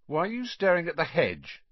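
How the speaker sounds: high-pitched suspicious question. A narrator's reading. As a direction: ask as if smelling a trick. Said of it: "he said suspiciously".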